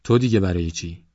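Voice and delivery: mildly puzzled, understated surprise; surprised question. A narrator's reading. Officer questioning a villager's complaint, mildly surprised. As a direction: ask it with a touch of astonishment. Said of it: "با تعجب پرسید".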